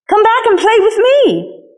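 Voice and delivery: high, slow call after departing friends. A narrator's reading. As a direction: call them back, stretched and pleading. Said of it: "called the little rabbit".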